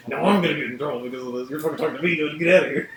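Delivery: frantic classmate scolding you; panicked whisper-shout classmate. Acted. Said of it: "they're like".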